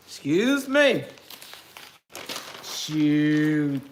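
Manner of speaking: giggly, breaking into laughter; laughing. Real, not acted. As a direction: laugh between the words. Laughing fit while eating.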